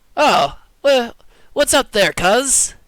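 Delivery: British speaker's fake American accent. Speaker voices a character's greeting: british attempt at an american accent. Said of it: "from the U K try to do like an American accent".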